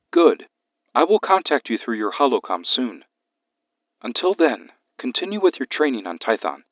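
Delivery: flat, emotionless alien voice; monotone alien master. Acted.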